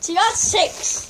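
slow, mumbled through a mouthful; cheeks stuffed full. Real, not acted. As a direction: cheeks packed with marshmallows.

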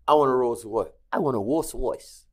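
light New York accent imitating Mike; a hint of a Brooklyn voice. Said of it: "in his, this New York accent".

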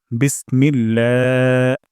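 বিসমিল্লাহ slow, the লা held one alif long; slow recitation demo. Shown as a demonstration. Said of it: "এক আলিফ টান লম্বা করে দিব". (লম্বা টানে বিসমিল্লাহ)

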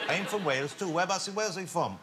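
lightly imitated Welsh accent; chatty question in a Welsh accent. Film extra asking a star about Wales, Welsh accent. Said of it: "this is a Welsh accent".

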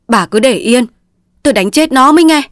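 high, loud fast threat; furious. Acted. Raging husband shoving his wife off mid-rampage, furious. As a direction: roar at her to leave him be. Raging man smashing furniture.

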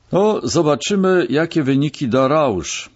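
lifted, placating tone; conciliatory. A narrator's reading. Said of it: "ugodowo powiedział". (ugodowo, wyższym głosem)

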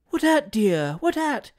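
high-pitched motherly coaxing; soothing mother. A narrator's reading. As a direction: gently question a frightened little boy. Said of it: "soothing the sweet infant".

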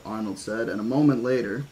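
ordinary delivery, nothing marked

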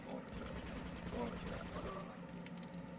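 slow breathy whisper. Pretend. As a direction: whisper the nag slowly. Nagging repeated, now whispered.

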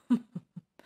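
short, muffled villain's chuckle; brief mocking laugh, muffled. A narrator's reading. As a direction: laugh as if from inside a helmet. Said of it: "A muffled laugh clanged under his helmet".

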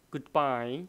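"goodbye" with the d of good left unreleased; silent d. Shown as a demonstration. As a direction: hold back the d in "goodbye", straight into "bye". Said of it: "ở đây nó là âm câm". ("goodbye" với âm d câm, không bật ra)

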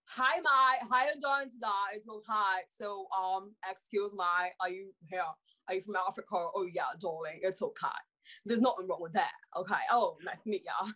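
a light British accent, friendly and chatty; an attempt at a posh British accent, playing a kind lady. Shown as a demonstration. Asked to show her accents in an audition, a light British accent. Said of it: "I'm gonna give you the British accent".

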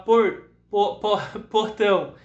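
a laugh breaking into portão; teacher giggling through a regional word; laughing stumble. Shown as a demonstration. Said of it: "A gente vai falar".

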